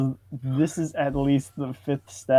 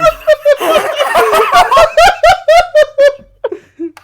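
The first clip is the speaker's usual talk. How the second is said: loud high cackling laugh; howling laugh; 12 dB louder than usual. Real, not acted. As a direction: burst into a long shrieking laugh. Big laugh.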